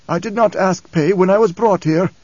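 proud, cool reply; coldly proud old man; cold pride. Acted. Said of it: "A certain cold pride in the response".

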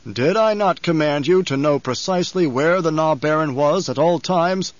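Baron's wrathful, measured interrogation; menacing Baron. Acted. Baron rebuking his servant, menacing interrogation. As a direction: press each word home in accusation.

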